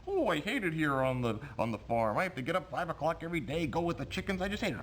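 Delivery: talking dog voice. Acted. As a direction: whine it like a grumpy farm dog. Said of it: "throws his voice to make the dog say".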